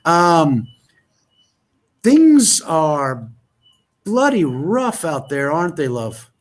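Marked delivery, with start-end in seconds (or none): 2.0-6.3 slow, drawn-out fake British; bad British accent. Commiserating with Natalie in the UK, bad British accent. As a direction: lay on a hammed-up British accent. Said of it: "doing my bad British accent".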